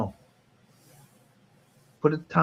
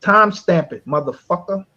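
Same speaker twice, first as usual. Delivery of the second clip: "Time stamp it" barked higher and louder; louder demand; 6 semitones higher, 7 dB louder than usual. Real, not acted. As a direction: push the demand harder, almost shouting.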